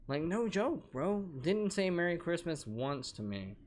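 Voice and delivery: worked-up rant, voice climbing; real frustration. Real, not acted. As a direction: let the grievance boil over. Venting about sister's snub.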